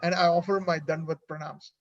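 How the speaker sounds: sarcastic flattery. Retold or imitated. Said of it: "with a little humor and sarcasm".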